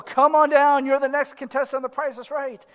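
game show announcer. Retold or imitated. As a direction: summon the next contestant with mock showman excitement. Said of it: "So-and-so".

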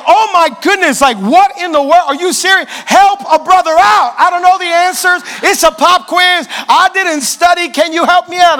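pleading for the answers in a panic; desperate pleading. Retold or imitated. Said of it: "You're just sitting there like".

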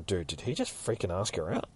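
hushed, incredulous aside; soft, conspiratorial question; retold whisper. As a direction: whisper it to the guy beside you. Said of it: "this dude's fucking whispering".

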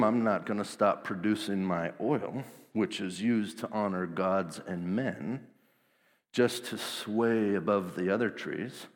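a hint of a stubborn old tree refusing the crown; olive tree impression. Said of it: "That's my impression of an olive tree".

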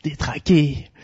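slow, lightly villainous host voice; sinister Lucifer voice. Acted. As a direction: greet them like a hammy devil. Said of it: "je suis le maléfique, le ténébreux Lucifer". (voix de Lucifer légèrement maléfique)

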